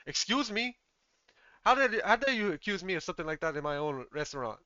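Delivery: hammed-up indignant father; indignant outrage. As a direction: rise in offended disbelief, then defend yourself. Chef outraged at son's accusation.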